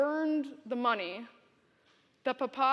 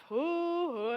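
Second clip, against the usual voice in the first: rolling laugh; 5 semitones higher, 3 dB quieter than usual. Retold or imitated. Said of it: "Papa's laugh".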